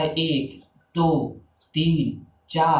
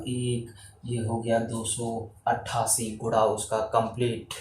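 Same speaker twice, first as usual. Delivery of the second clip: counting to oneself; 5 dB quieter than usual. Shown as a demonstration. Teacher tallying the crossings for a sum, quiet counting to oneself. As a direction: count it off quietly while working. Counting through the working to himself.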